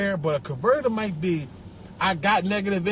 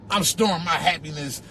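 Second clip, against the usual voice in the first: mock zen voice; 5 semitones lower than usual. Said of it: "What you talking about?".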